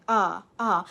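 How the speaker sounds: AH as a loose neutral "uh"; relaxed schwa. Shown as a demonstration. Teacher isolating the sound for learners, relaxed schwa. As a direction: let AH out with the tongue resting. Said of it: "your mouth stays relaxed".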